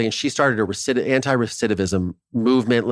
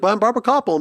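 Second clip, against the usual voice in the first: mock Barbara; 10 semitones higher, faster than usual. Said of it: "And she's like".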